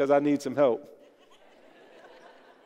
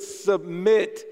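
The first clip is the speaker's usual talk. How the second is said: "submit" with more vigor, pitch held up; like you mean it. Shown as a demonstration. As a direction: really get into the word "submit". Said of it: "say it like you mean it".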